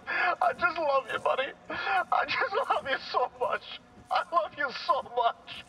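gushing through tears; tearful declaration of love. Acted. Car tells its old co-star it loves him, tearfully. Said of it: "I wouldn't get emotional".

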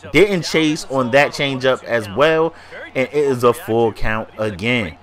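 talking through a blocked nose; congested allergy voice; stuffy nose. Real, not acted. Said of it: "If I'm sounding a little stuffy".

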